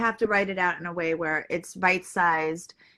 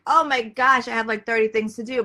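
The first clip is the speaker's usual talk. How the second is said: rushed, panicky and a bit louder; overwhelmed panic; 2 semitones higher, 4 dB louder than usual. Retold or imitated. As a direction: blurt it out like you're swamped. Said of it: "it's like".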